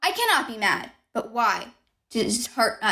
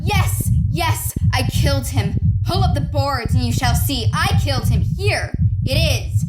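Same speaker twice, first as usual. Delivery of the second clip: high, loud, unhinged confession; madman's outburst; frenzied confession; 3 semitones higher, 4 dB louder than usual. Acted. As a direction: crack under guilt and scream it out.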